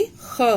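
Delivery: ख। said as a soft throaty rasping kha; Persian kha sound. Shown as a demonstration. Teacher to students, demonstrating the nukta kha. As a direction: scrape ख। gently in the throat. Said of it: "ख के नीचे बिंदी लगी".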